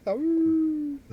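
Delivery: high little wolf howl; howling like a wolf pup. Pretend.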